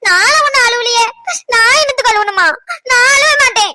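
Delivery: upset, protesting through tears; tearful denial. Acted. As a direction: insist you are fine while welling up. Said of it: "அப்புறம் எதுக்கு நீ அழுதுகிட்டு இருக்க?".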